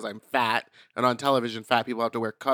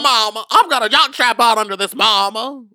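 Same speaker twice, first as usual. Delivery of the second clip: mock soothing man; 8 semitones higher, 8 dB louder than usual. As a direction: coo at her like a campy friend calming her down. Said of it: "he's over there going".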